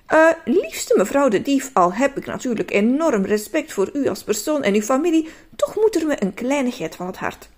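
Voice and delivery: syrupy sweet, overly polite rehearsal; butter her up as sweetly as possible; mildly honeyed, sugary politeness; sweetest voice. Pretend. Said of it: "met zijn allerzoetste stem".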